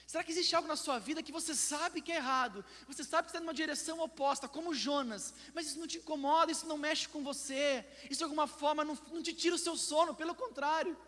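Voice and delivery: high, urgent pulpit appeal; forceful preaching. Real, not acted.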